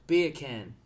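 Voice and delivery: British "Beer can", the r dropped; British accent demo. Shown as a demonstration. Host showing friends an accent trick, British accent. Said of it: "a British accent".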